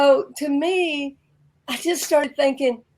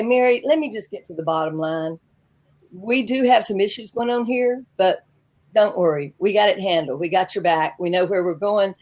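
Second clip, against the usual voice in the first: lower, calm bottom-line reassurance; acted doctor lightly reassuring a patient, pitched down; 4 semitones lower than usual.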